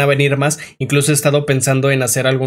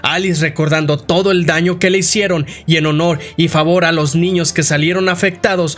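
animated storytelling, pitched above the chatty voice; dramatic game-recap narrator; story narration. A narrator's reading. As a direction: recount a dark tale with emphatic flow.

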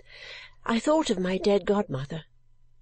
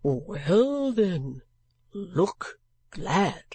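gruff gentleman; much slower than usual. Acted. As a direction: lay it down flatly and slowly.

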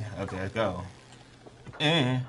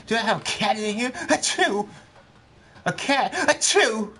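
sneezing robot voice; 13 semitones higher, slower than usual. Retold or imitated. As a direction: imitate a sneezy robot, high and fussy. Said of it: "He said".

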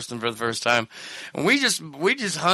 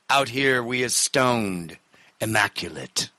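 poet recitation. Acted. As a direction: recite like a brooding rock poet. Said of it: "a rock singer's poetry".

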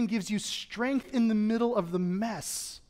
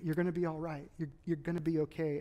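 softly soothing an injured daughter; a hint of a hushed whisper, tender and steady; dad murmuring comfort to his hurt girl; soft reassurance; 3 semitones lower, 6 dB quieter than usual. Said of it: "I just kept saying".

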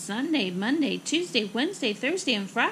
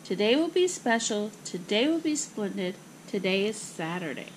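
reassuring. Acted. Mother comforts daughter after a setback, reassuring. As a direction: reassure her, easing down toward the end. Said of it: "her mother reassured her".

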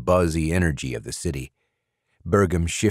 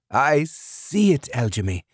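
crying; 8 semitones higher than usual. A narrator's reading. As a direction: speak through tears. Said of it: "Burgum cried".

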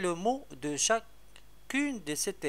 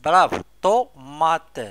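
loud teacher praise; 11 dB louder than usual. Shown as a demonstration. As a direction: call out the answer loudly. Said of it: "loud praise to pupils".

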